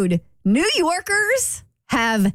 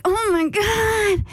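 exasperated; 8 semitones higher, much slower than usual. Retold or imitated. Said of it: "I'm like".

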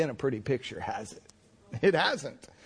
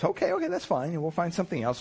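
patient clerk; 3 semitones higher than usual. Retold or imitated. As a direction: lightly voice the clerk humoring him. Clerk voiced in story.

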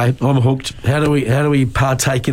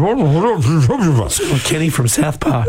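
very slow, muffled through a mask; muffled Kenny voice; 3 semitones higher, much slower than usual. Real, not acted. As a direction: mumble like Kenny under his hood. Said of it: "Kenny, Kenny".

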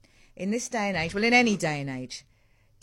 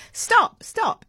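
imitating child's cry; 9 dB louder than usual. Son protesting being tickled.

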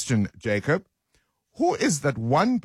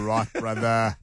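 lightly done Joburg bro voice; Four Ways bro accent. Acted. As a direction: sign off like a gym bro. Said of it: "That's how they sound".

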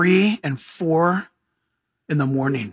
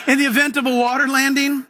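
mock flight attendant announcement; 6 semitones higher than usual. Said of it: "they'll tell you".

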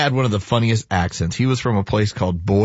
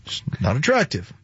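put-on a light, softer British accent; 3 semitones higher, 4 dB quieter than usual. A lightly British accent, softened to sound polite. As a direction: say it like a polite Brit. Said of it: "If they did it with a British accent".

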